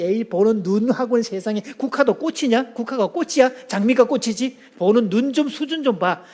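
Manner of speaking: sneering mock scoff; scoffing contempt. Shown as a demonstration. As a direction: belittle their taste. Scoffing reply starting a fight.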